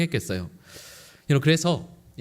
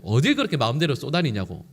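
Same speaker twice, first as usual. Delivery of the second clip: ordinary talk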